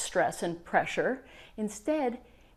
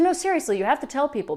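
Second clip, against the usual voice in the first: insistent; 6 semitones higher, much faster than usual. Retold or imitated. Client insisting the coach tell everyone, eager. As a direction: press the point eagerly.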